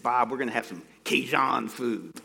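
put-on a light, hesitant stab at a thick Cajun accent; mild mock Cajun accent from a preacher who admits he can't do accents. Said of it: "I'm about to attempt one for you".

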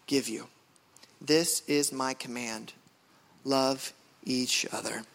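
low, slow and deliberate; solemn scripture reading. Real, not acted. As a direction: read the verses gravely, weighing each phrase.

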